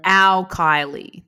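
loud, drawn-out American accent. Shown as a demonstration. Actor showing off an American accent to the therapist, American accent. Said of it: "That's my American accent".

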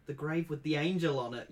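loud, urgent cry; screech. Acted. Frightened child telling grandmother, loud mock screech. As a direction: blurt it out in alarm. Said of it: "you screech".

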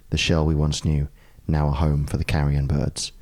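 low, rough hungover reading. Pretend. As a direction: read it tired and hungover. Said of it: "In my slightly hungover voice".

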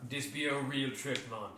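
lightly voiced Jamaican accent; a hint of a Jamaican accent. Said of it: "that was my Jamaican accent".

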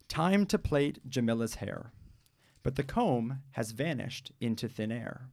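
put-on slow, lively read-aloud for children; storybook reading. Host reading a picture book aloud on the radio, lively story voice. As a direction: read the opening like story time.

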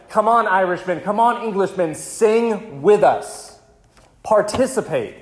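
lightly voiced soldiers beckoning the enemy; German soldiers calling out. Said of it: "they said".

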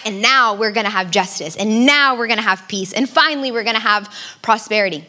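town crier. Retold or imitated. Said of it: "it would go something like this".

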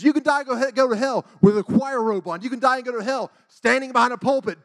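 high, loud imitated preaching; revival preacher. Evangelist addressing a revival congregation, imitated forceful preaching. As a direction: proclaim it like a fired-up evangelist. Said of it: "this man was up there preaching".

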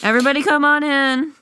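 high, sing-out invitation; calling out. Retold or imitated. Captain calls the crowd inside.

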